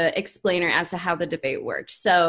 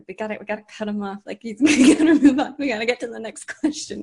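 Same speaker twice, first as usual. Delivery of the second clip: moderator's hurried aside; 2 semitones higher, 3 dB louder, faster than usual. Retold or imitated. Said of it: "lean over and be like".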